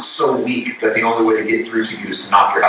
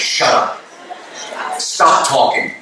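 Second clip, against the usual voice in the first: vehement; slower than usual. Retold or imitated. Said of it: "with a vehement passion".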